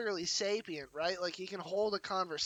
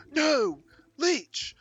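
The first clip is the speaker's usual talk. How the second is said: zombie voice; 7 semitones higher, 7 dB louder than usual. Acted. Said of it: "I should give this guy a zombie voice".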